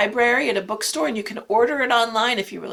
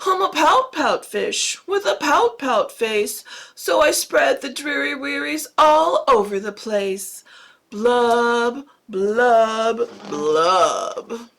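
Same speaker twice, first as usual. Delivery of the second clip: a lightly voiced glum fish, chanting his refrain; gloomy pout fish; 3 dB louder, slower than usual. Teacher reads the fish's gloomy refrain in a light voice. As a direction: droop through the refrain like a sulky fish.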